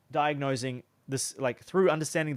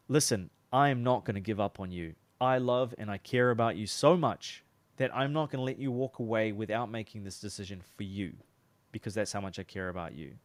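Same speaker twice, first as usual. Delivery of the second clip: come-to-Jesus tone; 4 semitones lower than usual. Shown as a demonstration. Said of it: "this come to Jesus moment".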